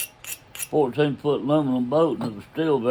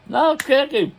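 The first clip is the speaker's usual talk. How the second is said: teasing insistence; 12 semitones higher, 4 dB louder than usual. Retold or imitated. Teasing wardens about friend's missing license.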